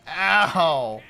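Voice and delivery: sharp loud cry of pain; pained yelp. Real, not acted. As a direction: yelp as you get hit. Hit in game.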